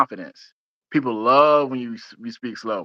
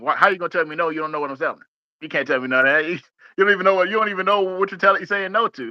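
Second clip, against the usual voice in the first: exasperated; 6 semitones higher, faster than usual. Retold or imitated. Mock rant at a salesman's "no.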